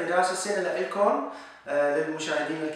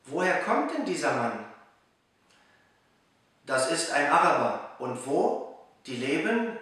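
measured rhymed-verse reading with pauses between lines; poem recital; much slower than usual. Acted. Reciting a New Year poem for viewers learning German, measured poem recital. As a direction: recite it line by line, letting each rhyme land.

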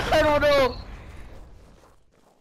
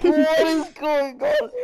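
stunned disbelief; 6 semitones higher, slower than usual. Real, not acted. Body disintegrates in game.

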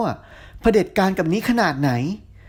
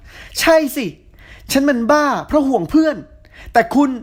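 furious retort; 9 semitones higher than usual. A narrator's reading. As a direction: throw it back in his face. Heroine shouting back at Tin.

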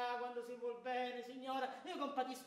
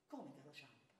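the Cavaliere; 10 semitones lower, 16 dB quieter than usual. Retold or imitated. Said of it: "Signor Cavaliere".

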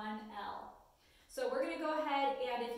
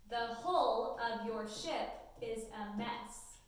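slow, clear dictation read to students; much slower than usual. Acted. Teacher dictating a sentence to students, slow and clear. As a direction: read each word slowly so they can write it.

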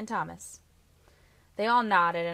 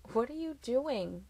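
exasperated sigh, slow and higher; 6 semitones higher, slower than usual. A narrator's reading. Boyfriend questions her frantic leap from bed, sighing. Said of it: "he sighed".

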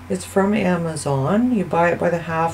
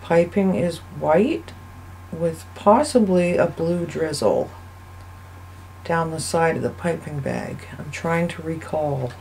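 robot voice; 4 dB quieter than usual. Real, not acted. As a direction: drone it like a machine. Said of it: "Why am I talking like a robot?".

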